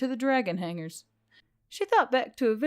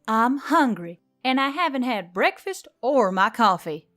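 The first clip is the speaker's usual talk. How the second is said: louder, indignant protest; defensive denial; 3 semitones higher, 5 dB louder than usual. Acted. Emily denying nerves to the robot, indignant. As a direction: insist you're fine.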